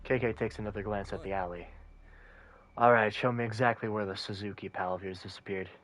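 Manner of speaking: low, quiet reading; a hint of a calm detective tale; story narration. A narrator's reading. Narration and detective line resume.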